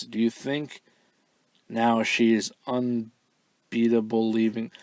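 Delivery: slow, puzzled reading of "unbeatable leaving"; halting literal read. Shown as a demonstration. Host reading a garbled fan question word for word, slow and puzzled. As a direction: stumble through the words as written, slowly. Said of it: "I'm not really sure what this word means".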